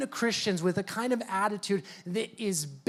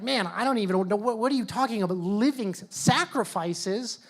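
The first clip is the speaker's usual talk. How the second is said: rising, baffled disbelief; a hearer who just doesn't get it; confused listener; 2 semitones higher than usual. Retold or imitated. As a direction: sound bewildered by the idea. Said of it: "It's like".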